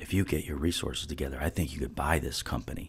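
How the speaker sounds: hushed, confidential whispered aside. Retelling what a man said to them over the phone, retelling a whisper. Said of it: "he whispers in the phone".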